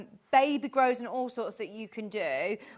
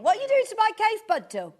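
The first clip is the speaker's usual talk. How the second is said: playful scolding call; 9 semitones higher, 6 dB louder, faster than usual. Real, not acted. Calling to her pet on desk.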